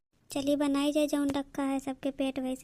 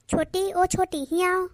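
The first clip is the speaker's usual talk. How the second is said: higher, louder summoning call; 4 semitones higher, 4 dB louder, slower than usual. Acted. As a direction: call her over from across the house. Calling the sister-in-law over.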